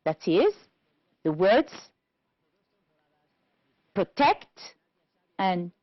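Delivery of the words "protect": protect, stressed on TECT with a rise; stress on second syllable. Shown as a demonstration. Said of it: "stressed on the second syllable".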